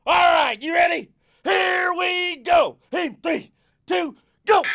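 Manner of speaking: high, loud coach countdown; rally them to start; coach shouting. Acted.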